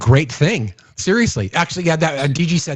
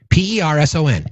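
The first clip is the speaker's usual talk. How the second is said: spelled out letter by letter. Real, not acted. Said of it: "let me say it again".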